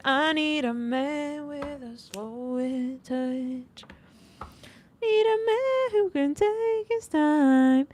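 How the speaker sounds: slow, high swoony longing; dreamy. Acted. Reader dreamily describing the romantic man she wants.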